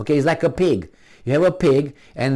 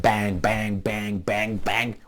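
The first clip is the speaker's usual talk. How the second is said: imitated strikes; 3 semitones lower, 4 dB quieter, much slower than usual. Imitating martial arts strikes.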